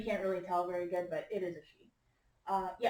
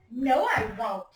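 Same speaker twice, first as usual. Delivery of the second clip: put-on a louder, stubborn little-girl protest; Jojo's protest; 7 dB louder, slower than usual. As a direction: insist like a proud kid. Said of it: "said Jojo".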